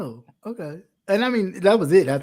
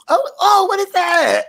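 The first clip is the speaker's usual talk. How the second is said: retold shock; 11 semitones higher than usual. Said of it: "And it was like".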